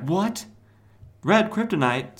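high-pitched mock astonishment; hammed-up incredulous question; shocked disbelief. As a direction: squeak it out in disbelief. Superman's shocked reaction, acted out.

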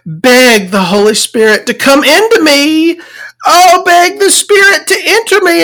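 high-pitched mock religious ecstasy, climbing as it goes; fervent praying girl. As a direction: beg like an over-the-top zealot. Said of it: "she keeps repeating it over and over".

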